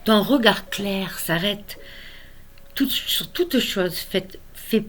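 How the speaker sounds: lyrical recital, emphatic line openings easing off at the ends; measured, tender poetry recitation; poem reading. Acted. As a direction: read verse in wonder at a small child.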